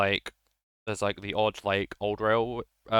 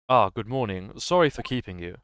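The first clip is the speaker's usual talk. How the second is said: stoic posh Londoner; 4 dB louder than usual. Acted. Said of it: "it's, like, stoic".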